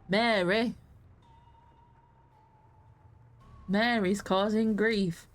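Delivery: mock Little Hope witch-trial accent; slow, drawn-out imitation of the Little Hope accent; imitated game accent. Mocking witch-trial flashback characters, imitated Little Hope accent. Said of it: "with that, that accent".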